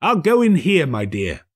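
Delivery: put-on high, bright-eyed old Scrooge; eager old miser, newly kind. A narrator's reading. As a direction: play Scrooge cheerfully asking. Scrooge voiced in the story.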